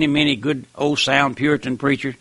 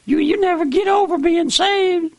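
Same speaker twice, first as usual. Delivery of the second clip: ecstatic preaching cry. Acted. Preacher exulting to listeners over salvation, soaring cry. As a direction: cry it out like a man overcome with joy. Preacher's peak exclamation in sermon.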